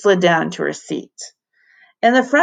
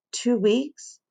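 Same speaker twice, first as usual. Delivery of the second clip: cheering; 5 semitones higher, 5 dB quieter than usual. Acted. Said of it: "Everyone but Emberly cheered".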